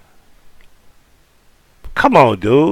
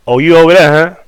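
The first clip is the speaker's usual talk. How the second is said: put-on New Orleans accent; 4 semitones higher, 4 dB louder than usual. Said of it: "that's how they talk".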